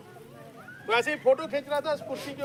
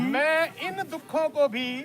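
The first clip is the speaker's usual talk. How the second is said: slow read-along; 2 semitones higher, 3 dB louder, much slower than usual. Shown as a demonstration. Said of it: "preacher repeats slowly".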